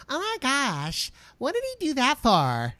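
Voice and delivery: high, breathless airhead squeal; mock clueless girlfriend gasping at the game; ditzy football girlfriend. Mocking a clueless girlfriend watching football, high squealing. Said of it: "the stereotypical chick watching football".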